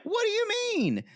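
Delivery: very high-pitched incredulous squawk; imitated affronted outburst; mock indignation. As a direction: throw it back in exaggerated disbelief. Mimicking his indignant reply.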